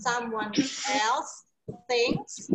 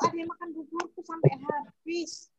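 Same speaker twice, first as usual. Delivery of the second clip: whispering; 3 semitones higher, 5 dB quieter than usual. Acted. Teacher whispers the bear's line.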